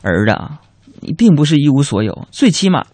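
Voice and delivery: consoling mother. Retold or imitated. Mother consoling her son who came home empty-handed, mock-tender. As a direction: console him lightly, as a mother would. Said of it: "还安慰我说".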